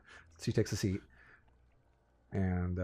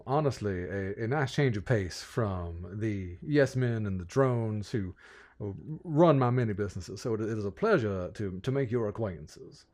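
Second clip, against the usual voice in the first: lightly voiced folksy Southern gentleman, impressed; rambling, genteel Southern host; courtly Southern lord president. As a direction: welcome them with fussy Southern courtesy. Game master plays Samuel.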